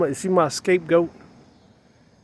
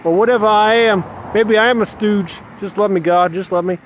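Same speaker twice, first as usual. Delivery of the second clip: higher, louder begging to God; pleading prayer; 3 semitones higher, 4 dB louder than usual. Acted. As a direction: cry out to God for love, pleading. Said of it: "Am I saying".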